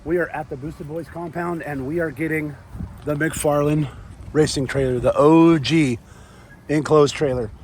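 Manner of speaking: raspy, worn-out voice after yelling; hoarse voice. Real, not acted. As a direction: talk through a lost voice. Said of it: "I've lost my voice".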